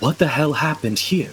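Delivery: raspy, rusty croak, very scratchy and painful-sounding. Narrating to the players, voice an unseen stranger calling out, very scratchy voice. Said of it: "the voice is very, like, really scratchy".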